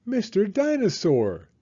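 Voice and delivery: high, loud happy cry; excited cry. A narrator's reading. Peppa guessing George's present, high and excited. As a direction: call out the toy's name in delight. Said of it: "she cried".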